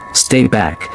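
rasped, barely human; hoarse rasp. Acted. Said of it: "she rasped, her voice hoarse".

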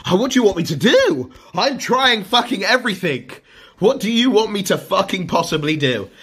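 fed-up streamer ranting at his chat; frustrated rant. Real, not acted. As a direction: vent it all at once, fed up.

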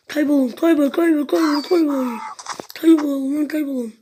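loud, shooing yell; shouting at animals. Real, not acted. Gamer yelling at donkeys to get lost, loud.

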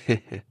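mock-menacing little chuckle; a short wicked heh-heh; sinister chuckle. A narrator's reading. Narrator grinning menacingly at a teasing colleague, sinister chuckle. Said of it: "我狞笑了一下".

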